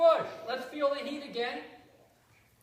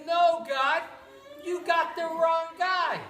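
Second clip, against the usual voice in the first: louder, higher protest; protesting Moses; 5 semitones higher, 5 dB louder than usual. Acted. Moses protests to God, louder and higher. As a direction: push back, it isn't me.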